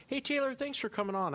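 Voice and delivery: ordinary delivery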